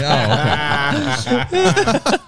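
high, squeaky deflated okay; mock deflated. Telling friends how he answered his wife, a high meek okay. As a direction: shrink into a small high okay.

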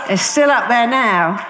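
slow, laughing through the words; amused at her own post. Real, not acted. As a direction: let the laugh spill into it. Laughs about Facebook post.

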